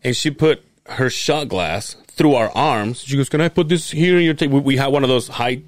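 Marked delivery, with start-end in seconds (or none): 3.3-4.5 put-on drunk woman voice. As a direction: play the tipsy stranger leaning in.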